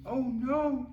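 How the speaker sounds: high, loud mock alarm; alarmed cry. A narrator's reading. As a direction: cry out like disaster is coming. Dramatic storytelling reaction.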